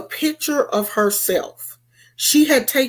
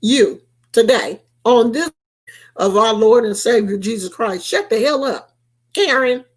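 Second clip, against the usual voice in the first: sassy cuss-out. Retold or imitated. Cussing out Karen.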